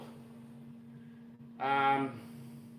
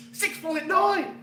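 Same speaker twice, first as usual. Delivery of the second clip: slow and high, laughing through the words; savouring the number; real giggling joy; laughing disbelief; 12 semitones higher, 5 dB louder, slower than usual. Real, not acted. Repeating the milestone.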